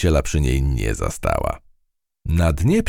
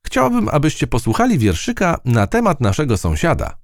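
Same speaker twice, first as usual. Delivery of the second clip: high, eager little mouse voice; a bright young mouse inviting friends to listen; high mouse voice announcing a poem; mouse Matylda; 12 semitones higher than usual. A narrator's reading.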